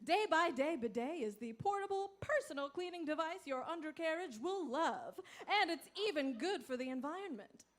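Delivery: upbeat infomercial pitch; ad read. Acted. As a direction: sell the product with a grin.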